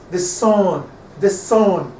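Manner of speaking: "the sun" with weight on "sun", said twice; stress on SUN. Shown as a demonstration. Teacher showing which syllable is stressed, "the sun" stressed on "sun". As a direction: lean on "sun" after a short "the". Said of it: "sun" is stressed".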